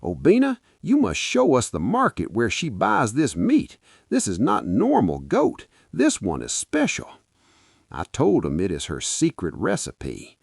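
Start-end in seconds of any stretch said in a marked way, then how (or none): 0.0-7.1 high, eager calling out; a friend hyped about the meat; excited friend. Acted. Friend Emeka begging to know the butcher, excited. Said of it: "He looked at me and said".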